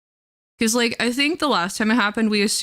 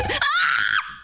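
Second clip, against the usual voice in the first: imitating the scream; 7 semitones lower than usual. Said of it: "We had the".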